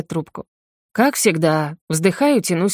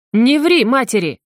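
loud, high, slow shout; mother shouting at a lying son; 5 semitones higher, 4 dB louder than usual. A narrator's reading. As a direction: yell it right in his face. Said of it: "кричит в лицо".

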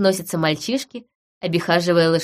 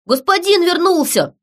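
much higher, eager shout of welcome; excited cry; 10 semitones higher, 4 dB louder than usual. A narrator's reading. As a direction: burst out to greet him. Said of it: "вылетел навстречу Сид". (радостный возглас)

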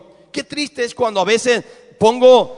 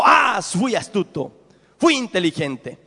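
smug king. Retold or imitated. Asa gloating in preacher's retelling.

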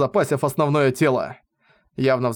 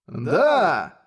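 excited cry. A narrator's reading. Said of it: "прокричал он".

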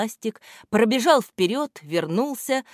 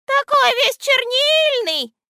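letter Ya; 11 semitones higher, 6 dB louder than usual. A narrator's reading. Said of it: "вступила в разговор буква Я".

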